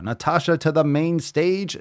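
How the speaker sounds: rising showman call to the stage; announcer call. Shown as a demonstration. Summoning the listener Natasha to the stage, announcer style. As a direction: call her up like a game-show host. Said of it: "calls her up twice".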